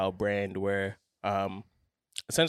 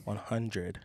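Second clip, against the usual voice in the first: late night radio voice; 6 dB quieter, slower than usual. Acted. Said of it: "why you whispering?".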